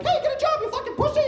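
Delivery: high, loud mock boomer rant; angry old man yelling. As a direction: scream at the kids like a furious old man. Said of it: "I get into it".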